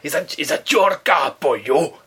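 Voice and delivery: put-on lilting Welsh voice of an old neighbour; a touch of Welsh, asking about the car; Welsh accent. Neighbour at the door asks in a Welsh accent. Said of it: "well, she's from Wales".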